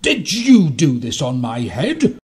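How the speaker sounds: loud, slow, drawn-out question; accusing mole. A narrator's reading. Little mole questioning an animal, loud accusation. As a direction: demand an answer from the suspect.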